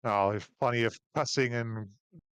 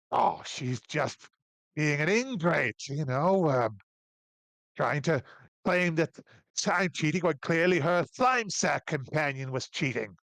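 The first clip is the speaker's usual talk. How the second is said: proud dwarf; 4 semitones higher than usual. Acted. Dwarf answers the barman.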